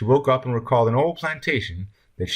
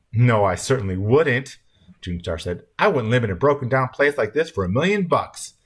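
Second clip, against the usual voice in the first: put-on higher, louder, emphatic child's retort; bratty little girl refusing; 4 semitones higher, 4 dB louder than usual. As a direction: refuse firmly in a raised child's voice.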